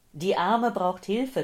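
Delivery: urgent, panting plea. A narrator's reading. Old man phoning for an ambulance, urgent and agitated. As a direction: call for help in agitation. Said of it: "keuchte der Mann".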